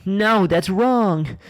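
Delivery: hammed-up anime denial; dramatic shout. Dramatic outburst, slow and huge.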